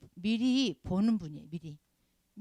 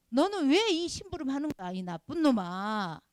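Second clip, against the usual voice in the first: louder, higher scold ending slow; mock angry scolding; 4 semitones higher, 4 dB louder, slower than usual. Preacher voicing a critic who insults God's messenger, slow scolding. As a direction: berate the messenger, drawing out the insult.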